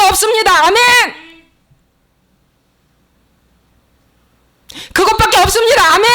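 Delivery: high, loud rallying proclamation; full-force pulpit shout; shouted preaching. Real, not acted. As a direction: drive the congregation to an amen. Preacher leads congregation in shouted amens.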